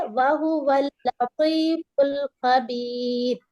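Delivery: اللَّطِيفُ with the lam held double and a heavy ط; تشدید والا لام; doubled lam. Shown as a demonstration. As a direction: stress the shadda clearly. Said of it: "لام پر تشدید ہے تو ہمیں double آواز".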